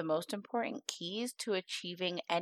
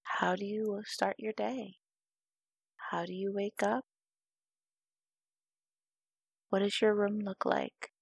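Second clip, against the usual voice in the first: guided meditation. Acted. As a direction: guide the listener unhurriedly into calm.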